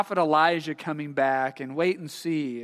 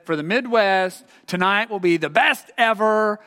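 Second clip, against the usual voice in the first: light, emphatic news announcer voice; hint of a TV newscaster; news forecaster; 3 semitones higher, 5 dB louder than usual.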